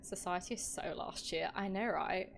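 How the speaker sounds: lightly put-on posh British accent. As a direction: play it a touch posh British. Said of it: "I love doing the posh voice".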